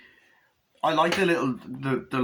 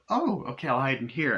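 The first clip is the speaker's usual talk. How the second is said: mock realisation; 2 semitones higher than usual. Bride in a retold film spots a hiding place, mock realisation. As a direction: voice leaps up on finding an idea.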